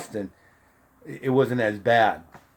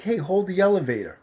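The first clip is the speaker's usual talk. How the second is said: calling out; 6 semitones higher than usual. Retold or imitated. Man calls to hold door.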